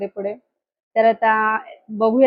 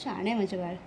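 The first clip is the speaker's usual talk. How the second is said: real tender reassurance of a parent; soothing; 6 dB quieter, slower than usual. Real, not acted. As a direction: hush her gently, there there. Comforting crying daughter after school.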